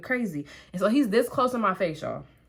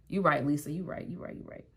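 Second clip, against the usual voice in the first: softer with each you right until it disappears; fading concession; 5 semitones lower, 7 dB quieter than usual. Retold or imitated. Giving in to mom Lisa, fading to nothing. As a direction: let each you right shrink away. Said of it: "And I said".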